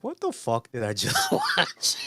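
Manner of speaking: Tab's horrified look, voiced high; mock horrified Tab. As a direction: voice her shocked reaction, laughing. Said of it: "Tab's got this look on her face like".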